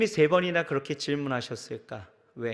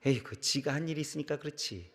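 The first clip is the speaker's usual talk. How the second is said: elders' scolding remark; 2 semitones lower, 8 dB quieter than usual. Retold or imitated. Preacher quoting what elders say, in a soft dismissive mutter. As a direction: toss it off like a grumbling elder. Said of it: "어른들이 그렇게 얘기하시더라고요".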